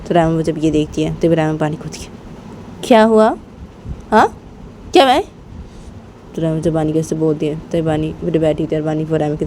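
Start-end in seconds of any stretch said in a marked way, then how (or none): 2.8-5.2 puzzled surprise. Acted. Raima notices Bani smiling at her.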